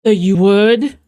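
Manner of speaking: loud incredulous question, rising at the end; imitating someone who can't believe it. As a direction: echo them in loud disbelief. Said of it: "She was, like, incredulous".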